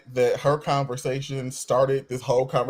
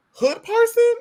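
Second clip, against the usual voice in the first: emphatic; 6 dB louder, slower than usual. Real, not acted.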